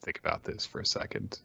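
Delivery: a soft, calm reply, fading to near silence; a quiet, composed backing-off; calmly. Retold or imitated. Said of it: "very calmly is like".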